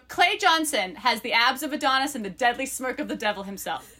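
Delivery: lively book-blurb read-aloud. Acted. Co-host reads friends the book blurb, lively read-aloud.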